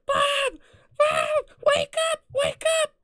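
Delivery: very high, loud panicked-friend shriek; squealed, urgent mock yell; Ingrid yelling. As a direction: imitate a friend screeching to wake someone. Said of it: "is yelling at me".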